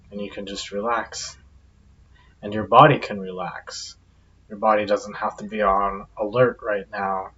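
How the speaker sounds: calm guided-meditation delivery with long pauses. Acted. Guide leading listeners to relax their bodies, guided meditation. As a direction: ease listeners into relaxing, unhurried pauses between phrases.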